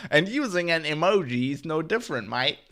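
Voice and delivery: rusty mock Australian accent for a spokeswoman; attempted Australian accent. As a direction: have a rough go at an Australian accent. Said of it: "I can't do an Australian accent".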